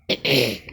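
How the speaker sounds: sharp dry cough; a quick chesty cough. Real, not acted. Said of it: "só tô com tosse". (tosse seca)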